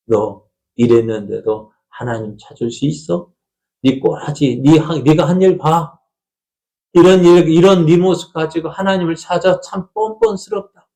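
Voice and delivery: a nagging conscience turning on you; taunting voice of guilt growing to a jeer; accusing inner voice. Acted. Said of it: "그런 마음이 계속해서 들잖아요".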